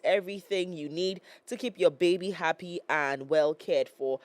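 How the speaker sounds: lively product pitch to parents; radio ad read. Acted.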